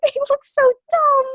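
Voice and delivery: high, loud laughter through the words; barely holding it together; laughing. Real, not acted. Friend remembering terrible polygons, laughing loudly.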